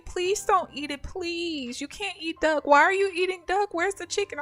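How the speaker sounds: put-on high, loud begging kid voice; pleading child. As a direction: beg like a little boy who loves ducks. Nephew pleading over duck.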